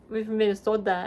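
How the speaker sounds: imitated Minnesota accent; Minnesotan accent. Shown as a demonstration. Mimicking family from up north, Minnesotan accent. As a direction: say it like a proud Minnesotan local. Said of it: "they say stuff like that".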